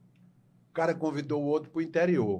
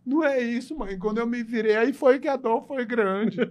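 high squeaky daughter; 9 semitones higher, 6 dB louder than usual. Retold or imitated. Filha explica à mãe, aguda.

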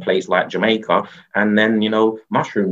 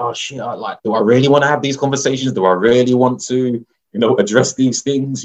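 higher, louder voice of a worried self; dreading self; 6 semitones higher, 3 dB louder than usual. Retold or imitated. Person after the trip dreading hard conversations, higher anxious voice. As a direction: play your own panicked inner voice. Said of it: "you're like".

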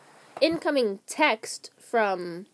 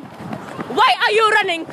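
high, slow, stretched yell; drawn-out shout; 9 semitones higher, 8 dB louder than usual. Real, not acted. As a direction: call it out long and high. Repeats it drawn out, higher.

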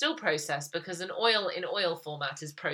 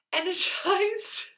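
higher, slow, rising as if doubting the word; puzzled self-check; 7 dB louder, much slower than usual. Real, not acted. Correcting a slip to listeners, as a puzzled rising question. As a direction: test the word out loud, unsure. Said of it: "Can't speak today".

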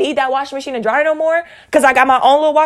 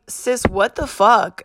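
slow, drawn-out retold disbelief at normal pitch; much slower than usual. Reacting to sister's text, drawn-out disbelief. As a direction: stretch it out, half speed, incredulous. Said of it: "And I was like".

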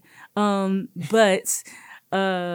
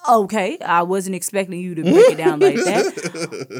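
surprised; 8 dB louder than usual. Retold or imitated. Teacher taken aback, laughing.

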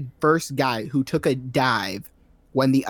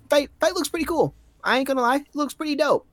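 pitched way up in excitement; excited high praise; 11 semitones higher, faster than usual. Real, not acted. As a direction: gush about the cool fight.

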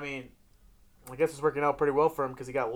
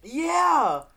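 high, loud mimicked yeah; hammed-up enthusiastic cheer; gleeful yes; 12 semitones higher, 6 dB louder than usual. Friend retells the butt dance reply, hammed-up excitement.

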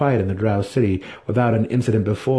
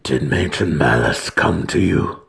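low, slow and hesitant; frightened; 6 semitones lower than usual. A narrator's reading. Alton nervously asks the matron, low and slow. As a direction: force out a question you dread. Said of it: "frightened but needing an answer".

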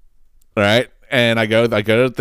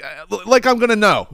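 sarcastic; 10 semitones higher than usual. Retold or imitated. Sarcastic reply.

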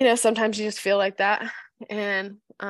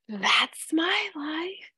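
slow high whispered sigh; weary whisper; 8 semitones higher, much slower than usual. Real, not acted. Tired mom summing up her week, slow whisper. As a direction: breathe it out defeated. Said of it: "resigned whisper".

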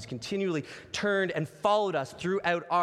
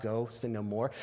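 soft and low, freeing; gentle release; 7 semitones lower, 4 dB quieter than usual. Shown as a demonstration. Preacher showing the kind reading of Jesus' words, low and soft. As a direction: say it as release, lower and softer. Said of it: "it's not".

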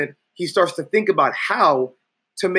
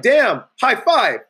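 mock smooth guy; 7 semitones higher, 5 dB louder, much slower than usual. Instructor acting cool to girl.

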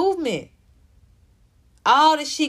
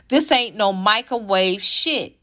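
mocking slang; slower than usual. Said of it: "See how she get back black and ghetto?".

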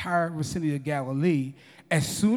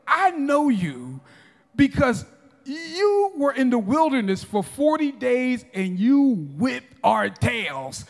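demons confronting Jesus; 3 semitones higher, 4 dB louder than usual. Acted. Demons telling Jesus they remember the wilderness, accusing. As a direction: stretch out the accusation, then pick up pace. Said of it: "they were able to say".

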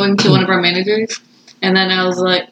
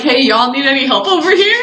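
laughing retold greeting; 5 semitones higher than usual. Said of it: "but I went to him like".

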